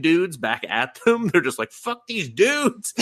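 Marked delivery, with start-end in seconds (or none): 1.7-2.9 hammed-up hobgoblin. Hobgoblins throwing dudes back.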